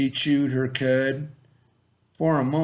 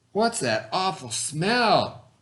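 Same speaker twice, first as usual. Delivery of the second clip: slow, higher disgusted asking; disgusted question; 5 semitones higher, slower than usual. Acted. Milton asking about the smell, slow and disgusted. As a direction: wrinkle your nose as you ask. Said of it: "asked Milton".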